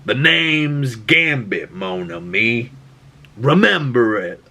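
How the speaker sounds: slow, lightly acted heroic line; Gambit. Doomed hero addressing the creature that stabbed him, slow and defiant. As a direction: deliver a drawn-out last line, deliberately. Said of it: "looks right at it and goes".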